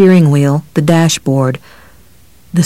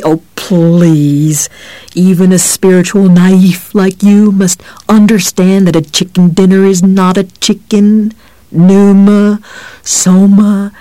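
scornful; 3 semitones higher, 4 dB louder than usual. A narrator's reading. Cop scornful rising rant.

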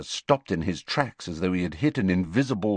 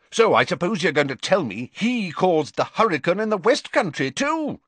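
higher, sarcastic rising anger; temper rising; 11 semitones higher, 4 dB louder than usual. Acted. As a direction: needle him sarcastically. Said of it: "his temper rising".

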